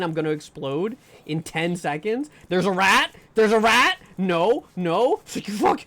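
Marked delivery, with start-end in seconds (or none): 2.5-5.8 loud, high alarm; frantic screamed warning; panicked yelling. Real, not acted. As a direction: shout in real fright as it attacks. Rat attacks in horror game.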